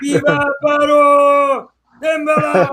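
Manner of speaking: put-on very high, loud creepy-doll voice with a Spanish accent; Telemundo Chucky. Pitching a Hispanic Chucky skit, high shrill doll voice. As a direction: shriek it like a Spanish-speaking killer doll. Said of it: "It's like".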